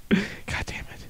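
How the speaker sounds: slow whispered curse; slow, hushed, mock-defeated swear. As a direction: whisper it, beaten, under the breath. Losing viewers to rival cult.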